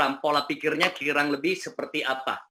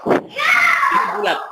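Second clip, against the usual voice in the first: high, slow, shouted; to someone hard of hearing; 6 dB louder, much slower than usual. Real, not acted. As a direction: shout slowly so they hear. Listener can't hear, raises voice.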